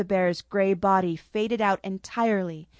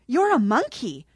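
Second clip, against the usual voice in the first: put-on higher, girlish exclaim like a young child; a young girl's surprised cry; sounding half her age; 4 semitones higher, 3 dB louder than usual. Girl sees the Cheshire is a monkey, exclaiming childishly. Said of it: "sounding half her age".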